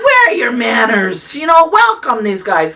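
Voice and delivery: loud, high scolding call; yelled back. Retold or imitated. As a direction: holler at the women to mind their manners. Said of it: "I yelled back to the women".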